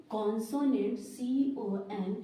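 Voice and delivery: each letter drawn out slowly; teacher's slow letter-by-letter dictation; slow spelling. Shown as a demonstration.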